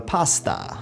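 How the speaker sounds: "pasta" as an imitated Italian PAS-ta; Italian pronunciation, imitated. Briton teasing Aussies, imitated Italian pronunciation. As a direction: say "pasta" with both vowels open, Italian style. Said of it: "hear the Italian go pasta".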